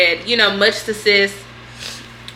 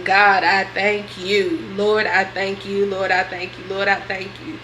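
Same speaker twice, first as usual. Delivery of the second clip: whispered prayer; 4 dB quieter than usual. Real, not acted. Thankful prayer about her health.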